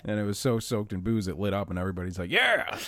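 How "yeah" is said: high whooping cheer; cheering crowd. Retold or imitated. Partygoers cheering the first couch fire, high whoop.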